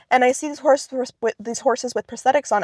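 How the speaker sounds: slight lisp with aligners in; talking around a retainer. Real, not acted. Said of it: "I have a bit of a lisp right now".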